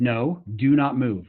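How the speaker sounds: slow, firm command; stern dad voice. Retold or imitated. Father stopping daughter at the edge, slow stern order. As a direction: spell out each word like a warning father. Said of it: "I had to use my dad voice".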